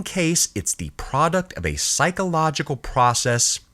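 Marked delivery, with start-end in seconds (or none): 1.5-3.6 process said higher and leaned on; stress on process. Shown as a demonstration. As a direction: lean hard on the word process. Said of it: "emphasis on the word process".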